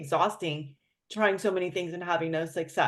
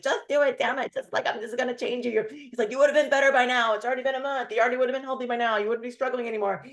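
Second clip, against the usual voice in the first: mock yelling boyfriend; 5 semitones higher than usual. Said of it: "yelling all these things".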